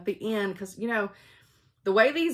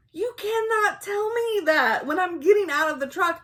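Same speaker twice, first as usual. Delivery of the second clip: high, breathy mock-scandalized whisper; shocked whisper; 11 semitones higher, 4 dB louder than usual. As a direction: hiss it back in fake alarm. Retold shocked reply to husband.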